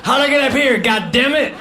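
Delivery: hammed-up fake confusion at the top of the slide; feigned surprise. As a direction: pretend you ended up here by accident. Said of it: "act like I got there accidentally".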